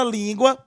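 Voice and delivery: "língua" stressed on the first syllable, LÍN-gua. Shown as a demonstration. Teacher giving an example of stress, LÍN stressed in "língua". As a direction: lean on LÍN and let gua fall away in "língua". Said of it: "em que a penúltima sílaba".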